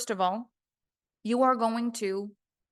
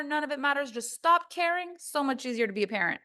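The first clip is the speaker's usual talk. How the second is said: higher-pitched dismissive mimicry, easing down; mock bad advice; 5 semitones higher than usual. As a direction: imitate someone brushing it all off.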